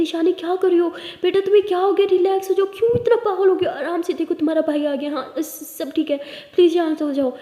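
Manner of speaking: calm her down fast, pleading; urgent calming. Acted. Brother calming frantic sister.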